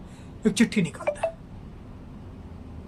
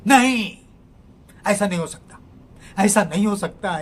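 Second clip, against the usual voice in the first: loud, high cry of refusal; shocked shout; 3 semitones higher, 7 dB louder than usual. Acted. Neeraj shouting at his friend after reading the note. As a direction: yell it out in disbelief. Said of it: "वह चीखता है".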